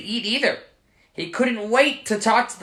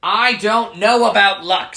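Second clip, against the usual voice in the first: louder, rising Irish leprechaun voice; 4 semitones higher, 9 dB louder than usual. Acted. Leprechaun raises his voice at Michael in Irish accent. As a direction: let the temper climb in a mild Irish lilt. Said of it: "his voice rising".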